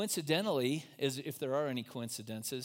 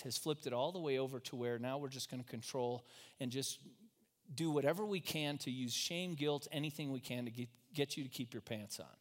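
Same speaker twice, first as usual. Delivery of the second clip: sincere apology; 4 dB quieter than usual. Retold or imitated. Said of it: "one of the first things I said".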